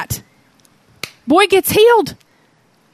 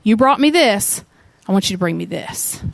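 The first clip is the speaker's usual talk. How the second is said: gently; 3 semitones lower than usual. Retold or imitated. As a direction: coax him kindly to open up. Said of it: "Jesus very gently says".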